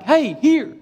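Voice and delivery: first firm call, pitched high; calling a dog. Retold or imitated. Calling his wandering dog.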